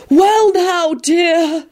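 high, cooing reassurance; soothing. A narrator's reading. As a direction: soothe like an airy older mystic. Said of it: "began in a soothing voice".

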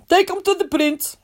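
a lightly voiced ogre's order. The ogre orders the cart driver to take them. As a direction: rumble the order like a big ogre.

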